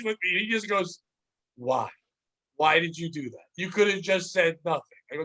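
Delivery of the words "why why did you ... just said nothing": buddy's voice. Retold or imitated. Buddy scolding, low voice.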